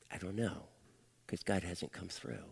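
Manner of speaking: low, hushed and reluctant; subdued admission. Retold or imitated. Father admitting failure to his daughter, subdued and low. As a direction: admit it softly, deep in your voice.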